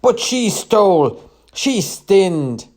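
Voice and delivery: high, loud accusing shout; outraged cry. A narrator's reading. Paid-off trader still accusing the woman, crying out. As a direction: cry out in protest, pitch swooping down. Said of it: "The man cried".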